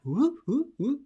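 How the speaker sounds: rising whoop sounds; swooping whoops. Shown as a demonstration. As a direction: mimic a voice leaping up. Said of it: "whoop in my tonality".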